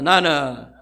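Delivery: preacher shouts Jesus' words for the church to repeat; thundering proclamation. Acted. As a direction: boom each line like Jesus rebuking Saul. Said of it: "따라합니다".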